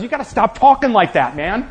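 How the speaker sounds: lightly voiced Peter begging him to be king; Peter pleading. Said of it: "And Peter comes to him and says".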